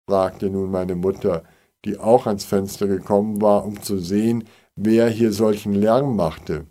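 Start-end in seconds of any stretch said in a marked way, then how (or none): none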